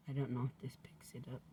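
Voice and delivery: hushed unvoiced whisper. Real, not acted. Whispers to viewers about the recording, hushed. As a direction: keep it secret from the room. Wondering if the mic hears her.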